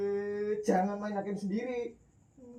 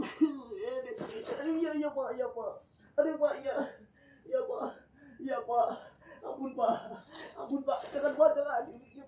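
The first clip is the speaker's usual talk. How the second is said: whimpering begging for mercy, pitched up; pleading in pain; 4 semitones higher than usual. Acted. Thief begging the villagers for mercy, pained pleading. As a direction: beg the beating to stop.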